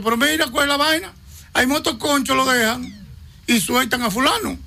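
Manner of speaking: mock-outraged chorus of colleagues; indignant protest. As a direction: protest that it's unfair, voice lifted high. Colleagues protest the unfair release.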